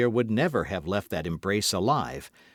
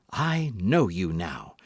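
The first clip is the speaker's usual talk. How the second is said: accusing; 4 semitones lower, slower than usual. Acted. Accusing recognition of her rival.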